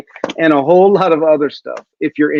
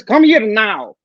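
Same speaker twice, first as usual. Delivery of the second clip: mama voice; 6 semitones higher than usual. Retold or imitated. Lunch lady calls failing student to her snack bar, imitated mama command. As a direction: order him over the way a mama would. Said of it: "with a mama voice".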